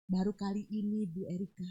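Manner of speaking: halting retold words of someone crying; tearful gratitude. Dying patient thanking visitor, imitated tearful halting gratitude. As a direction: break it up with long pauses, as if moved. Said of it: "nangis dia".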